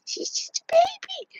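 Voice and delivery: slow whispered coo; hushed doting words; tender whisper. Real, not acted. Doting whisper about her dog.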